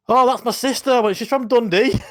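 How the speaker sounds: high, loud daft stoned voice; stoned customer. Retold or imitated. Stoned man explaining the address to the driver, mock daft. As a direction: play the stoned bloke making excuses.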